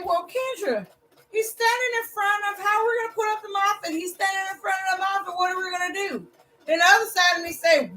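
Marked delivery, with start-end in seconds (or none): 0.0-6.3 inner voice. Retold or imitated. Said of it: "one side of me say".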